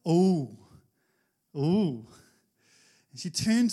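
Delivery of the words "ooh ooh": tender ooh. Retold or imitated. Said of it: "said it in such a way".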